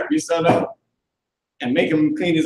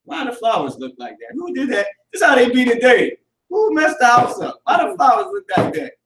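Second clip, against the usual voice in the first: higher, whiny complaining mother with a crying edge; mock outraged mother; 5 semitones higher than usual. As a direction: ham up a fussing mom finding a mess. Mother mocked, complaining about mess.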